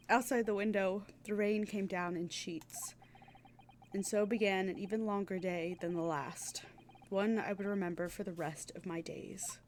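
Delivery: measured story narration, slowing at phrase ends. A narrator's reading. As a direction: read it like a solemn storybook. Reads game narration aloud.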